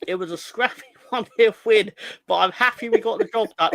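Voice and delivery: high, loud, giggly match report; worked up. Shown as a demonstration. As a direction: read it out over-excitedly, laughter bubbling. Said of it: "I'll calm down a bit".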